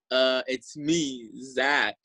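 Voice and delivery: slow, hesitant retold phone greeting; mildly unsure, drawing out the words; intimidated. Nervous caller introduces himself to host mom, intimidated. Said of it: "I was kind of intimidated".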